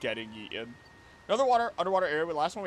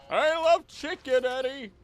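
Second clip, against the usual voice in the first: higher, slower goofy voice; put-on silly voice; 12 semitones higher, 5 dB louder, slower than usual. Streamer playfully voicing a fan favorite, goofy higher voice. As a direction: say it like a cartoon character.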